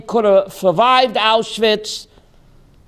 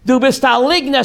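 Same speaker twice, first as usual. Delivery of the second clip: raised accusing voice, somewhat high; retold yell; 5 semitones higher than usual. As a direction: keep shouting liar at her. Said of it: "Screaming at her".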